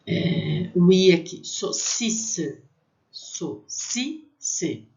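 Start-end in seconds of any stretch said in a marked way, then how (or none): 1.5-4.9 saucisse with au as o; French saucisse. Shown as a demonstration. Teacher drilling saucisse, French. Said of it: "tem som de O".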